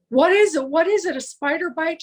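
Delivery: mildly panicked retold questions; retold screaming. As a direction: act out her panicked questions, short of screaming. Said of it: "she starts screaming".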